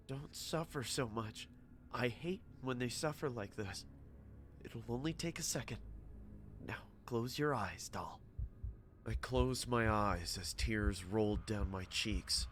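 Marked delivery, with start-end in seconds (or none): 0.1-8.2 whispered in her ear. Acted. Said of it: "whispered in my ear".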